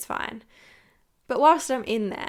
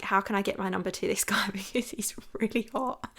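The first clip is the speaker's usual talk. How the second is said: whisper; 3 dB quieter than usual. Retold or imitated. Secret thought about hot stranger.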